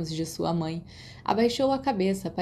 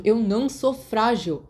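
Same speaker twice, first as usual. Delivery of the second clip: seething; 3 semitones higher, 4 dB louder, slower than usual. Acted. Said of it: "Remus ferveu".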